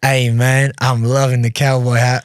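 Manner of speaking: imitated hood-Southern Texan; Texas Southern accent. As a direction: do a friendly Texan admiring a stranger's hat. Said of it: "Te-, Texas, Southern, like, a little bit hood".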